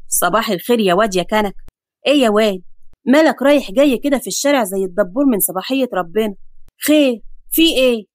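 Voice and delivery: grumbling neighbour at his window; lightly voiced old neighbour.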